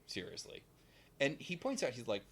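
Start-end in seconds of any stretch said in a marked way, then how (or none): 0.1-0.6 whispered. Retold or imitated. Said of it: "And Leo's like".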